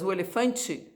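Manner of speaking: "elefante" with the final e said as i, elefantchi; "elefante" ending in a soft chi sound. Shown as a demonstration. Teacher showing how Brazilians say "elefante". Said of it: "Você tem o som de I".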